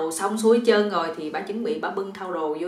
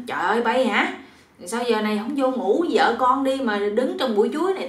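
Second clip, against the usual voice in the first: louder, mildly startled scolding; 3 semitones higher, 5 dB louder than usual. Acted. Startled mother-in-law finds son-in-law in the banana bush, scolding. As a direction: scold as if just given a start. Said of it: "Bà mẹ vợ giật mình mới nói".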